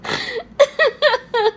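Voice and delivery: a real laugh that breaks out high. Real, not acted. Laughing at the movie scene.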